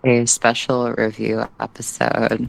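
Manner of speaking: talking with a retainer in; words a bit thick around a retainer; wearing a retainer. Real, not acted. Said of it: "I have my retainer in".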